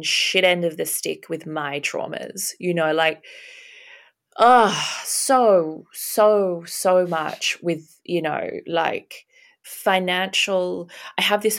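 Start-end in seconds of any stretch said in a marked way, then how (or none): 4.4-7.1 a real catch of tears in the voice; breaking into a real sob on a single word; choked up. Real, not acted. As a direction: voice cracking with emotion. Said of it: "I feel a bit emotional".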